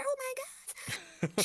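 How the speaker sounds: very slow, drawn-out, high, with a crying sound; shocked gasp. Acted. Girl sees her friend turned into a picture, wailing. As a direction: gasp it out in horror.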